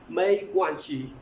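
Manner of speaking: मैं क्वान शी said slowly, each syllable clear, शी with a sh sound; Chinese pronunciation demo. Shown as a demonstration. Teacher shows students how to say मैं क्वान शी, slow and clear. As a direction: spell out मैं क्वान शी carefully for learners. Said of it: "आगे तो शी पढ़ेंगे".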